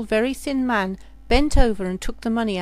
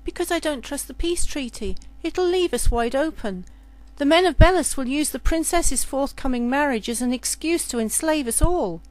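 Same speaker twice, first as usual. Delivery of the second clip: put-on higher, urgent girl's voice; worried serving girl; 4 semitones higher than usual. Serving girl explaining her fear of the treaty, urgent. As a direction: warn of the danger with conviction.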